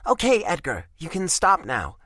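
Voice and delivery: embarrassed, stopping his reading aloud; flustered high protest. A narrator's reading. Eveline cuts Edgar's reading off, flustered and high.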